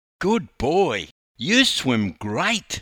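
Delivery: high, loud, gushing and animated enthusiastic voice. A man speaks to a four-year-old after his swim: enthusiastic. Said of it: "enthused Les".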